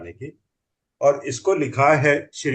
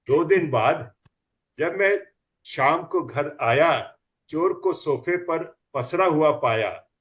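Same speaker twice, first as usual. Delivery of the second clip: comic poem recital; 2 semitones higher than usual. Acted.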